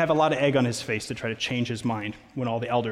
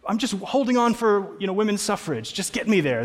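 higher, put-upon whine, hammed up; mock impatient woman; 7 semitones higher than usual. Preacher mocking an imagined woman waiting for suffrage, hammed-up whine. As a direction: play a woman stuck waiting, pleading to be carried along.

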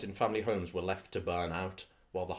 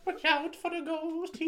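put-on Irish accent. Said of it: "all just have the same voice".

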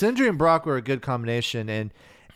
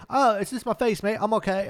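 higher, breezy mock Korg; 10 semitones higher than usual. Mimicking the rock creature shrugging off his death, higher, breezy. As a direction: toss it off like a cheery giant.

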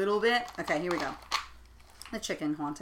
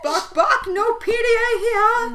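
high, loud, slow squawking chicken; 12 semitones higher, 10 dB louder, slower than usual. Pretend. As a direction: scold like an outraged hen. Voicing the ghost chicken.

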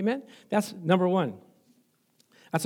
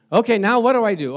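anxious self-talk; 4 semitones higher, 7 dB louder than usual. Acted. Voicing anxious believer.

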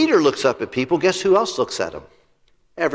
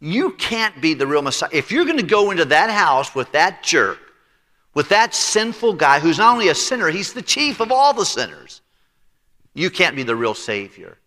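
scornful religious critics, rising and louder; mocking critics; 3 semitones higher, 3 dB louder than usual. Critics mocking Jesus, in a scornful jeering voice. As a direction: sneer at Jesus for visiting the sinner. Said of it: "began to make fun and say".

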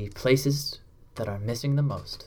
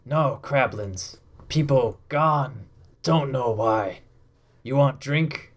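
a hint of a slow, simple half-orc; slow broken words from a dim barman; half-orc bartender; slower than usual. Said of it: "a large half-orc bartender".

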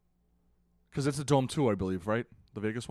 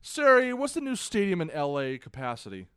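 talking to voice assistant; 5 semitones higher, 4 dB louder than usual. Real, not acted. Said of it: "Siri again".

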